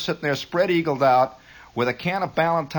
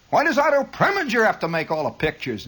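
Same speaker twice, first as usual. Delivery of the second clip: raised-pitch, needling question; mock nagging; 5 semitones higher than usual. Host goading would-be movie makers, mock nagging. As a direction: needle them with mock exasperation.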